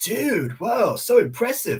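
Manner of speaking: very high, loud, goofy wacky character voice. Voice actor showing how he voices a jolly character, high-pitched character voice. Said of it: "I'm always like up here".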